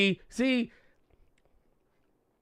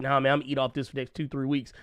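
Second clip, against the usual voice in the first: imitating folks; 3 semitones lower, 6 dB quieter, faster than usual. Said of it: "the folks be trying".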